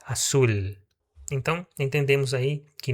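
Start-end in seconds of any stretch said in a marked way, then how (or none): 0.0-0.5 "azul" ending in a palatal L, not a U; clear final L. Shown as a demonstration. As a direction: end "azul" with the tongue on the palate. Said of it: "O L sempre vai estar no palato". ("azul" com L no palato)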